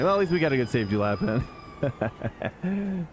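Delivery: put-on slow hammy British accent; bad British accent. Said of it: "that was an awful British accent".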